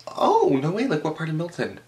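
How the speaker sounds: mock excited guard. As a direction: play the guard gushing. Imitating guard's excited small talk.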